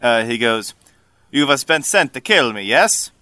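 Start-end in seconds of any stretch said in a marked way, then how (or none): 1.3-3.1 put-on Italian-tinged accent, threatening; a lightly voiced Italian swordsman demanding an answer; accusing, with an Italian lilt; Vodachi man. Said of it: "the man from Vodachi".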